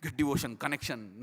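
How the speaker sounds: low, repeated self-coaching chant; mock mantra, willing it to work; imitated mantra. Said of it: "Like that I was doing".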